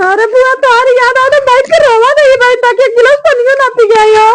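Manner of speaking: plaintive lament; tearful. Acted. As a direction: confess missing her, close to tears. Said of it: "चुप रहो, मत रोवा".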